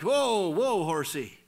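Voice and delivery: joking Whoa, whoa to a horse; mock horse call. Shown as a demonstration. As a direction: play a rider pulling up a horse. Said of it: "Not woe like".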